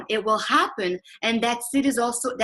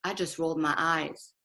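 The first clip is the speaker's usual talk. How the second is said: lower, softer owning it, "I just rolled my eyes" said gently; soft admission; 4 semitones lower, 4 dB quieter than usual. Shown as a demonstration. Admitting the eye-roll to her husband, softly sincere. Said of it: "Being authentic is saying".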